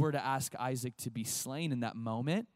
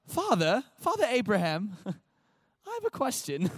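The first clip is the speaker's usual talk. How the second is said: high, louder son in a put-on accent; Isaac; 7 semitones higher, 4 dB louder, slower than usual. Isaac questioning Abraham on the mountain, put-on accent. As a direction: ask curiously in a hammed-up accent, laughing between phrases. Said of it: "he has an accent like that".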